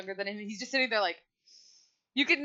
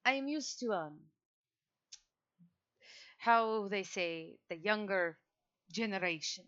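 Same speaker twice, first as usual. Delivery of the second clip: a hint of an ancient aristocrat, unhurried; old vampire; 4 dB quieter than usual. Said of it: "Edmund looks towards her and says".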